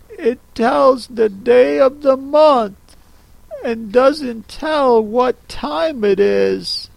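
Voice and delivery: put-on curious little girl, slowly; Alice remarking. Alice, peering at the Hatter's watch, curious and slow. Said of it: "she remarked".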